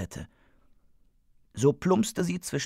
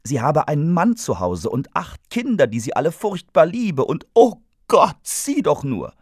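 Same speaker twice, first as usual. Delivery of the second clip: high, loud panicked shriek; 6 semitones higher, 7 dB louder than usual. A narrator's reading. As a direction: scream it out in panic. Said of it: "Und die Drahuna schrie".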